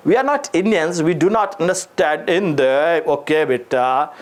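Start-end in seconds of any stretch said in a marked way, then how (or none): 0.1-3.1 mocking student. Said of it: "कुछ लोग कहते हैं".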